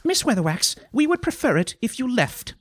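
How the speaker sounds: high-voiced, formal request to leave; haughty dismissal. A narrator's reading. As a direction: draw yourself up and dismiss her. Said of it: "drew herself up and said".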